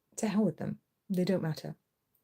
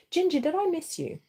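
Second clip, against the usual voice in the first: much higher, sweet pet talk; 9 semitones higher than usual. Real, not acted. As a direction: coo at the cat. Talking to second cat.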